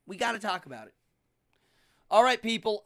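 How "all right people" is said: calling out. Real, not acted. Calling out to wrap show.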